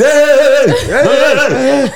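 put-on yelling at kid.

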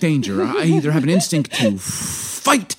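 calm crisis counselor voice; therapist voice. Acted. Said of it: "I'm going into my therapist voice".

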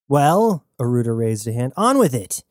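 lightly voiced brusque woman; Aruda impatient. Aruda telling Jazz to get on with it, impatient.

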